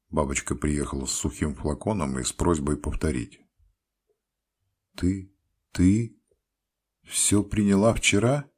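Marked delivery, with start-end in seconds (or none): 4.9-8.5 louder, wild alarmed question. A narrator's reading. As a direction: ask in a frantic, wild voice. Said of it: "спросил я диким голосом".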